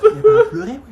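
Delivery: high, loud laughing outburst. Acted. Teacher laughing that the student held it together. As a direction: burst out laughing mid-line.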